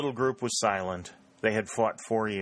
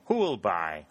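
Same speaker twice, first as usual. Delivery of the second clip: auctioneer call. A narrator's reading. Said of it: "in sonorous and solemn tones".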